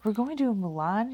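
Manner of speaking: high, loud shocked cry; Anna's high startled outburst of disbelief. Retold or imitated. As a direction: squeal it in disbelief. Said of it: "even Anna, she's like".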